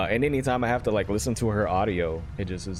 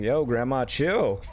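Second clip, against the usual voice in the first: mock protest; 4 semitones higher, slower than usual. Acts out protesting to aggressive grandma.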